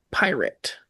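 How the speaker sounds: dramatic whisper. Real, not acted. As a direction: hush it like a secret. Dramatic hushed word.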